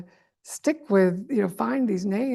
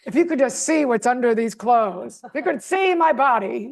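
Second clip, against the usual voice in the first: mock Trump boast; 3 semitones higher, 6 dB louder than usual.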